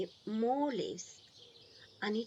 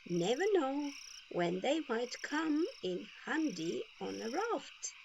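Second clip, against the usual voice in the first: lightly voiced Grandma, a bit higher; a knowing grandmotherly aside; Grandma's voice; 5 semitones higher than usual. Grandma voiced in read story.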